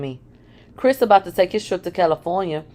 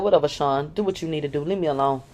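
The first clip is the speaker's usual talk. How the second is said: done and weary; 3 semitones lower, 4 dB quieter than usual. Retold or imitated. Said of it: "It could be heard in my voice".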